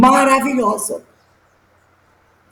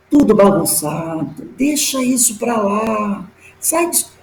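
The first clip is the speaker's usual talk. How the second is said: lower, unhurried and coaxing; silky persuasive spirit voice, lower; soft, smooth voice; 5 semitones lower than usual. Retold or imitated. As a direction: coax her gently like a tempting spirit. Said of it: "aquela voz macia, suave".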